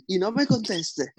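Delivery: retold scolding. Mom scolding her son before storming out, mock scolding. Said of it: "una vez me estaba regañando".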